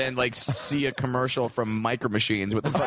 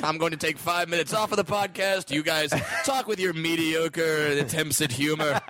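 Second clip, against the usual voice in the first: mock haughty. Pretend haughty exit from podcast.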